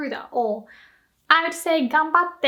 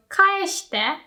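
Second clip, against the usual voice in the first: friendly request; 6 semitones higher than usual. Shown as a demonstration. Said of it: "This still sounds friendly".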